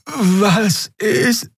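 high-pitched, groggy question; high, sleepy little voice; drowsy confusion. A narrator's reading. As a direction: ask as if just woken. Dozing Xea wakes up confused.

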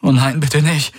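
high, anguished put-on plea; breaking voice. A narrator's reading. Valyr feigns grief over Jun, voice breaking. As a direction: plead as if about to break down. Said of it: "ließ seine Stimme brechen".

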